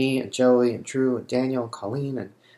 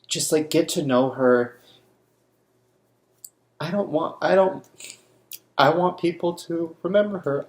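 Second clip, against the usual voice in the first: high, pained pleading; heartfelt, upset appeal; grieving plea; 7 semitones higher than usual. Real, not acted. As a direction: plead from real grief, pitch raised. Pleading that friend be remembered.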